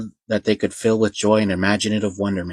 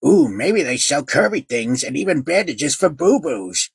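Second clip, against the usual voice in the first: put-on high, slow baby talk; cutesy baby voice; 6 semitones higher than usual. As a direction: coo it like a sweet toddler. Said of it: "with a near cutesy baby voice".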